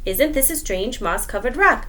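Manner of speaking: the magic question again; musing spider. Acted. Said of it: "I stopped and said".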